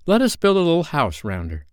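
high-pitched eager proposal; excited young leader, pitched high; eager cry. A narrator's reading. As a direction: announce a bright idea to the gang. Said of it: "cried Peter".

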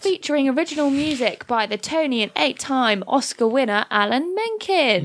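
selling it like a show advert; pitching the musical to a radio audience, salesy; promo read. Acted. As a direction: read the blurb like a trailer voice-over. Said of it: "You have sold it".

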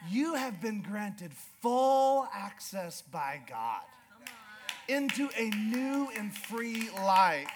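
slow, earnest preaching; sermon application. Acted. Pastor to the congregation, slow earnest preaching. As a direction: press the point home slowly.

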